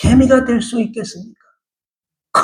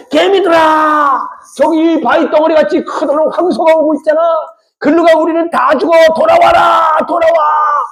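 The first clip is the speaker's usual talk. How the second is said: pretend crying out; 5 semitones higher than usual. Preacher as an ant warning the other ants, crying out. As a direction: call out urgently as if to far-off ants. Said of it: "이렇게 내가 외쳤다고 봅시다".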